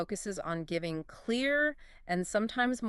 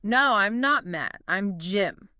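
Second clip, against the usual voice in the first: slow, with NOT louder and drawn out; stress on NOT; 4 dB louder, slower than usual. Shown as a demonstration. Teacher drilling the negative answer, stress on NOT. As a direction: hit "not" hard for a strong denial. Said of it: "Emphasize not".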